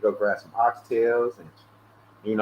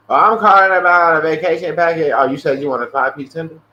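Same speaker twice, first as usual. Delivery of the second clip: retold rude exchange; 3 semitones higher, 7 dB louder than usual. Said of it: "be rude and say".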